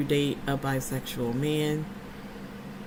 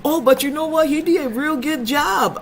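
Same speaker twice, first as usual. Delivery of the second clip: African men; 9 semitones higher, 5 dB louder than usual. Retold or imitated. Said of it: "They say".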